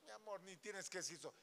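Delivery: a lightly voiced flattering spouse; sugary flattering spouse. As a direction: gush over them like a sweet-talking liar. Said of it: "Pero si se empieza".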